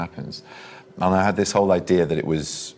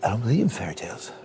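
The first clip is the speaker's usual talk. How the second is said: a fast Trump voice pitched higher; a quick, higher mock of Trump's delivery; Trump impression; 6 semitones higher, faster than usual.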